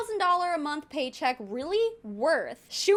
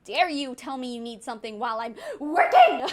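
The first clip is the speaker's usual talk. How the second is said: mocking the mom; 3 semitones lower, 3 dB louder than usual. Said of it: "and the mom's like".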